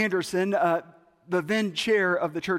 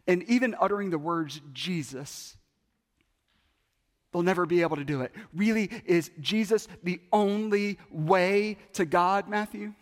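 Fred's hardest question. Retold or imitated. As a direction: build to the hardest case. Fred's climactic challenge.

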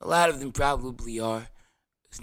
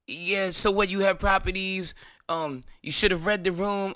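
mock snooty commenter; 5 semitones higher than usual. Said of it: "All kind of dumb shit".

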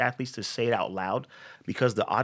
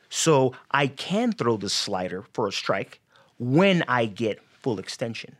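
ordinary talk

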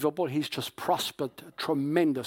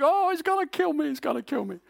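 high, hammed-up panicked wail; mock panic; 12 semitones higher than usual. Preacher acting Jacob terrified that Esau will kill him, mock panic. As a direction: play Jacob freaking out, much higher. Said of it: "Jacob is freaking out".

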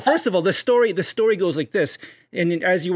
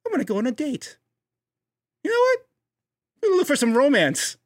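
mock bold declaration; 7 semitones higher, faster than usual. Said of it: "what do you do after all that?".

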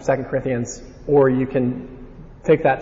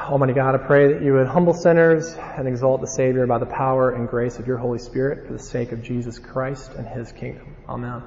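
prayer. Real, not acted. Prays before the sermon.

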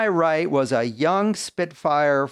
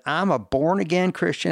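higher voice with a Southern lilt; imitated Tennessee accent; 4 semitones higher than usual. Man recalling her refusal, in a light Tennessee accent. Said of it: "All because Ann said".

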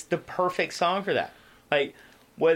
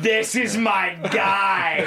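laughing delight; 3 dB louder, much slower than usual. Retold or imitated. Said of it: "I'd be like".

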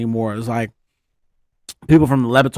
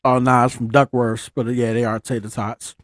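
chewing while talking. Real, not acted. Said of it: "Sorry, I'm chewing in the mic".

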